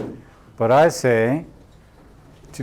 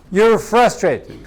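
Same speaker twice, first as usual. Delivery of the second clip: higher, slow, laughing through it; laughing validation; 8 semitones higher, 4 dB louder, slower than usual. Shown as a demonstration. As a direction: mirror it back, laughing. Demo validating reply.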